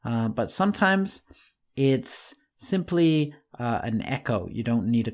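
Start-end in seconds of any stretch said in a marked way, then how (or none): none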